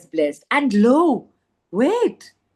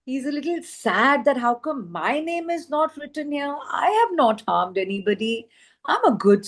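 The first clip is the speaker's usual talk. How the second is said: a little sad; 5 semitones higher than usual. Retold or imitated. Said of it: "he's upset".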